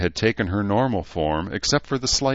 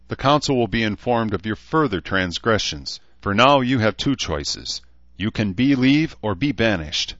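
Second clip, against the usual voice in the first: higher, louder formal pronouncement; stern elf; 5 semitones higher, 5 dB louder than usual. Acted. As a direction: hand down a lofty ultimatum.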